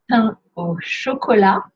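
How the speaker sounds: "Pain au chocolat" ending on an open la, T silent, pitch rising; nasal "Pain", then "chocolat" with no final T. Shown as a demonstration. Teacher modelling a pastry name for learners, French with silent T. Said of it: "Don't pronounce the T".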